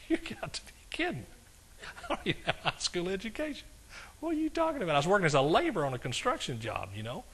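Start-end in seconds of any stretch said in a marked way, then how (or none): 0.1-4.9 high, hushed incredulous protest; half-laughing, squeaky retort to an absurd request; mock disbelief. Preacher replaying his protest at God's call, incredulous.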